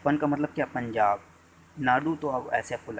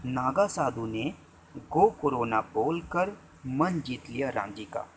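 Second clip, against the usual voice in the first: dictating slowly; slower than usual. Shown as a demonstration. Teacher dictating the bottom-five mnemonic, slow. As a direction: dictate the sentence slowly for writing. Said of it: "इसका sentence आप यहाँ लिख लीजिएगा".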